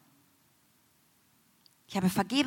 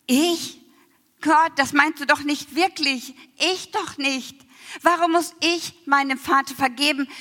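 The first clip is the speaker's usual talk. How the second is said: retold protest; 5 semitones higher, 4 dB louder than usual. Arguing with God, retold protest.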